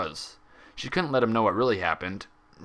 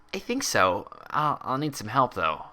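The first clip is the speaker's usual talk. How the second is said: a higher voice, the pony recounting shakily; the patient nervously explaining herself; young mare voice; 3 semitones higher than usual. A narrator's reading.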